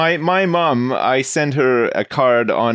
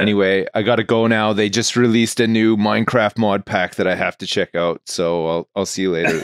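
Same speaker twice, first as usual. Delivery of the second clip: sick voice; 4 semitones lower than usual. Pretend. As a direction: fake being ill on the phone. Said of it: "And just put on a sick voice".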